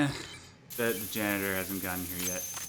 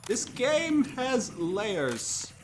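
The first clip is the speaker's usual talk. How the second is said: slow, high, hammed-up Scottish accent; a terrible Shrek-style Scottish brogue; 4 dB louder, much slower than usual. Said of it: "That was a terrible Scottish accent".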